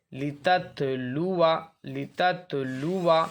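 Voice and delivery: drawn-out recitation, alif left silent; slow tajweed recitation; Quranic recitation. Shown as a demonstration. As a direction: recite it slowly with the alif unspoken. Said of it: "silent है".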